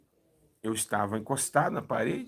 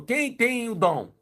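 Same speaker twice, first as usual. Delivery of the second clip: calling out; 9 semitones higher, much slower than usual. Retold or imitated. Preacher calling out to congregation.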